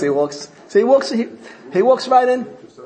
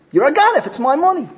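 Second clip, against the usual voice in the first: high, loud accusing yell; shouting accusation; 11 semitones higher, 3 dB louder than usual. Retold or imitated. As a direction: shout him down again. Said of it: "screams out".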